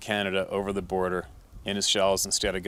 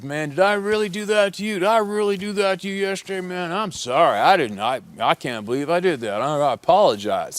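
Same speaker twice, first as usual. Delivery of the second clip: much higher, loud, pleading apology; sobered-up apologetic junkie; 9 semitones higher, 6 dB louder than usual. Retold or imitated. Junkie hunter apologizing to the other hunter, high loud pleading. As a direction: plead way up high like a crushed addict. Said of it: "He's talking like this to this guy".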